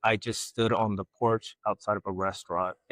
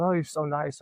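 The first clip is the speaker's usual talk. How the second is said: higher, mock-sweet gushing; gushing visitor; 6 semitones higher than usual. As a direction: imitate a charmed guest, lightly. Voicing surprised DC visitors.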